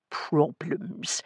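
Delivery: "problems" set apart and weighted; heavy stress on PROBLEMS. A narrator's reading. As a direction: lean meaningfully on the word "problems". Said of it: "laid a heavy emphasis on the last word".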